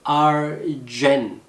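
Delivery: "Argen" slowly split into ar and gen; syllable-by-syllable demo. Shown as a demonstration. Teacher shows mouth shape to learners, slow syllables. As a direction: stretch each syllable of "Argen" separately. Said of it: "입술 모양 잘 보세요".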